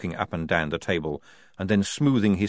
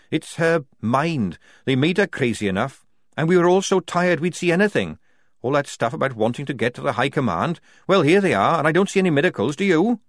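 high, insistent argument; sceptical Tonker; 8 semitones higher, 6 dB louder than usual. A narrator's reading. Tonker disputing miracles with the squad, defiant. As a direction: build to a loud challenge. Tonker argues against the Duchess.

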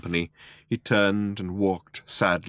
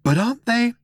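gaping disbelief; 5 dB louder than usual. A narrator's reading. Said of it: "Arthur gaped".

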